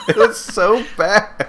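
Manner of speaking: high, laughing disgust; laughing incredulous groan. Real, not acted. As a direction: laugh it out in disbelief. Laughing about awful game.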